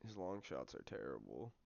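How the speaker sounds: usual speaking voice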